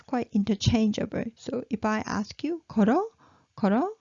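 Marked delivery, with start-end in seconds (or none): 2.7-3.9 걸어 ending on a rise like a question; rising question tone. Shown as a demonstration. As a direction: lift the end of 걸어 to ask. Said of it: "just raise the tone".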